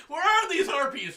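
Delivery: 웃음 섞인 질문; laughing. Real, not acted. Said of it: "just out of curiosity".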